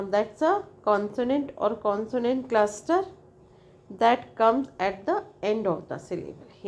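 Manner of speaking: slow, careful reading of a definition; slow textbook reading. Acted. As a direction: read it out word by word for the class. Reads definition from the text.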